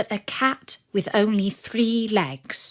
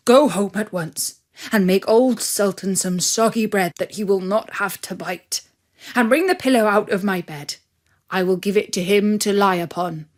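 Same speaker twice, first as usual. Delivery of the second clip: farmer's orders. Acted. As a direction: hurry her off, eager to pamper the dog.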